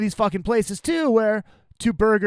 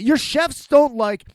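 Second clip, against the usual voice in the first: higher, slow incredulous echo; indignant echo; 7 semitones higher, 4 dB louder, slower than usual. Retold or imitated. Customer echoing the staff's excuse back at them, indignant. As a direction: throw it back in disbelief, stretched out.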